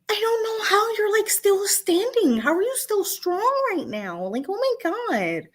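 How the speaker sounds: high-pitched imitation of tearful sobbing; mock boo-hooing. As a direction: wail it in a put-on weepy voice. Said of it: "boo-hooing".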